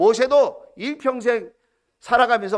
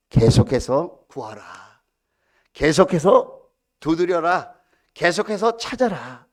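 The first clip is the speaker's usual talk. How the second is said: scripture proclamation; 4 semitones lower, 4 dB louder, slower than usual. Acted. Scripture quoted as command.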